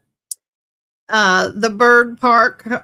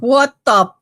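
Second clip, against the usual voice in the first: startled what the; 3 semitones higher, 4 dB louder than usual. Real, not acted. Reacting to something weird.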